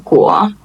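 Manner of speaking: 国 with a rising pitch; second tone. Shown as a demonstration. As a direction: lift the pitch through 国. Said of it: "the second tone is the".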